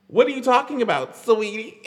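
half-laughing mock confrontation; mock disbelief. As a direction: challenge it in amused disbelief, near laughter. Mock disbelief at quoted claim.

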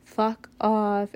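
a retold angry yell at a man; slow and forceful, telling him off; yelling angrily. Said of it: "I'm continuing to scream at him".

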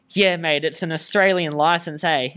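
slightly hammed-up Aussie accent; put-on Australian accent. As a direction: lean into your Australian accent to convince. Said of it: "I'm gonna put it on more".

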